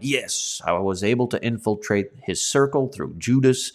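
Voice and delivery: the devil, victorious. Acted. Preacher voices the devil's thoughts on infiltrating through Judas, mildly triumphant. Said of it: "the devil is thinking himself victorious".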